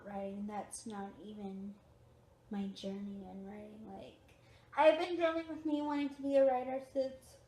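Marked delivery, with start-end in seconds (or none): 4.8-7.4 talking through a yawn; sleepy, mid-yawn. Real, not acted. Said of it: "excuse me yawning".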